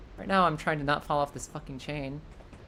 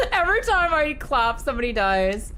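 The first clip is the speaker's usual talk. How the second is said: mock solemn rock singer; 5 semitones higher, 4 dB louder than usual.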